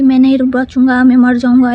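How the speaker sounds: crying out that he won't survive; retold shout. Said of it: "अचानक मेरा बाप चिल्लाने लगता है".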